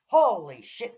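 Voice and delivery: loud rising holy shit; loud excited exclamation. Real, not acted. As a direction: burst out in delight. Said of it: "give you a pelvic thrust".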